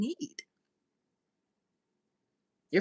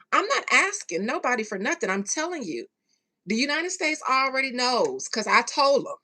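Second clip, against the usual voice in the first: imitating Fink; 4 dB louder than usual. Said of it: "he's telling you guys".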